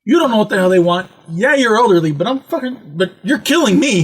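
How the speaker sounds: retold frantic protest to mom; worked-up, exasperated son; exasperated plea. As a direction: argue back at mom, at the end of your rope. Retold argument with his mother.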